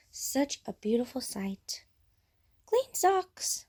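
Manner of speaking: soft, hushed admiring whisper. Real, not acted. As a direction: whisper over the clean socks. Admiring fresh laundry.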